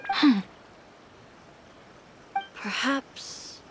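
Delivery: hushed, breathy reflection under the breath; whispered musing. Acted. Shogun murmuring her doubts to herself, whispered. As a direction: whisper it as a private realisation.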